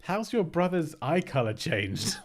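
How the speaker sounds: high, loud, laughing through the words; real laughter at a chat message; laughing disbelief. Real, not acted. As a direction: crack up in disbelief. Laughing at chat's eye-color claim.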